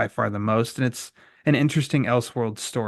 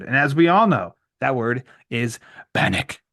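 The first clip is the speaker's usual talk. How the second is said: punchy catchphrase outro, key words pushed louder; podcast sign-off; 4 dB louder than usual. Acted. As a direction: sign off with deliberate pauses between phrases.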